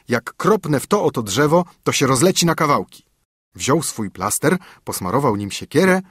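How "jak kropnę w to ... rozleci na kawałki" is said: lightly voiced young son, boastful; a son showing off to his father, a bit higher; eager son.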